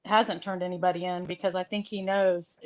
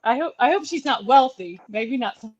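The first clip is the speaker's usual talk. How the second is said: joking quip; 3 semitones higher, 4 dB louder than usual. Retold or imitated. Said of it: "I said".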